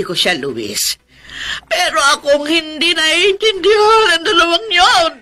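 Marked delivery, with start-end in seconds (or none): 1.6-5.1 crying. Acted. Aunt hurt, feels misunderstood.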